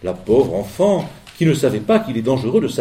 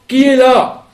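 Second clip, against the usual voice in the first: voix de grand-mère; 12 semitones higher, 9 dB louder, slower than usual. Acted.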